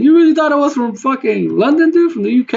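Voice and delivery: high-pitched, incredulous question; delighted disbelief. Retold or imitated. Gamer retelling his reply to being called British, mock incredulous. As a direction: squeal it in retold, giddy disbelief.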